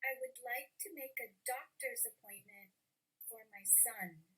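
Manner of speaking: "doctor's" and "son" stressed, pause before "for"; softly spoken, leaning on DOCTOR'S and SON. Shown as a demonstration. Teacher testing students' listening, stressing "doctor's" and "son". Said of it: "the two words I stressed were".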